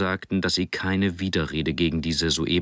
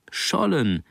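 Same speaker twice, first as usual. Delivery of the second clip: higher, proudly confirming the catch; 8 semitones higher than usual. A narrator's reading. Mother proudly confirms the son's catch to the father, proud. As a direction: say it with a mother's pride. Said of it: "den gleichen Stolz in ihrer Stimme".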